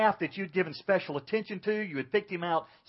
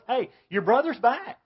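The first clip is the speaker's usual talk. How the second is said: higher, louder glad call; excited announcement; 8 semitones higher, 7 dB louder than usual. Acted. Brother's homecoming announced as in a fairy tale, excited. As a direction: call out the good news, high and loud. Acting out happy homecoming news.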